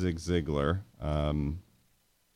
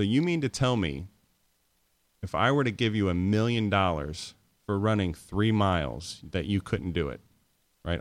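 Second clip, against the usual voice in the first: challenging question. Shown as a demonstration. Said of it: "You just phrase it like this".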